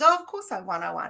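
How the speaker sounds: mock boast. Acted Snow White boasting in joke.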